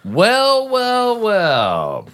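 loud, high, drawn out; milk it like a showman; theatrical well well well. Pretend. Theatrical opener before the music.

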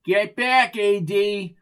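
high, urgent command; acted urgent police order; barked order. Armed officer orders Arnie back.

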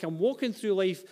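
high-pitched, mounting complaint; feeling alone. Acted. Lonely person lamenting that nobody gets them, plaintive. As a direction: pile up each "why" as an aggrieved plea. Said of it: "Despite how we feel at times".

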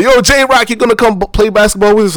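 high, hammed-up mock coworker; imitating a cheesy training-video actor.

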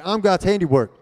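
loud, high-pitched rallying shout; from the chest, meaning it. Shown as a demonstration. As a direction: belt it out like you mean it. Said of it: "say it with your chest. Say, say it like you mean it".

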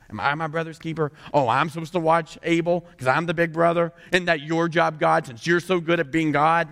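acted sarcastic defiance; mock-indignant, sassy retort; defensive, disrespectful. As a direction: snap back as a defiant big brother. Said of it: "defensiveness and disrespect".

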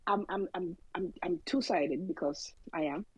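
talking while chewing breakfast; words around a mouthful of food; mouth full. Real, not acted. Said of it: "Sorry, chewing my breakfast".

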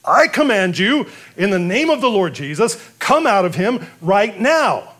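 disciples commanding the demon to leave; forceful command. Retold or imitated. Disciples try the command again.

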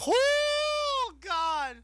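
shrieking falsetto oh God; high-pitched squeal. Real, not acted. Reacting to a feared clothesline.

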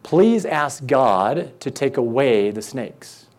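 beg, a little hammed-up; mock pleading cry. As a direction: Israelites crying out to Moses, mildly pleading. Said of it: "they cry out to Moses and say".

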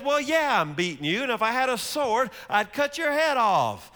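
angry Balaam. Acted. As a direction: bellow it like an enraged rider threatening his donkey. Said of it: "He says".

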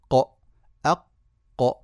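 ق with an echoing bounce on release; qalqala demo. Shown as a demonstration. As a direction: release the qaf in أق with a clear bounce. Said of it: "هكذا خرج صوت القلقلة".

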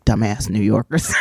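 low-pitched imitation of a disdainful mother; mother's grumble. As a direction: drop the voice for a mock put-down. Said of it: "she would say".

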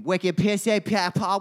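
slow, mocking Massachusetts accent; mock Boston accent. Mocking Massachusetts talkers to his cohost, slow Boston accent. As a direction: drag it out like a Bostonian you're making fun of. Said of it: "whatever that garbage accent is".

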